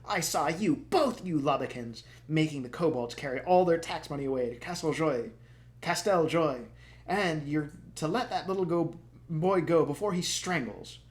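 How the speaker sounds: high, loud indignant accusation; calling out. Acted. Charmaine accuses the Lubbokins of stealing tax money, loud. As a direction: shout it across the room at the thieves. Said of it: "Charmaine called out".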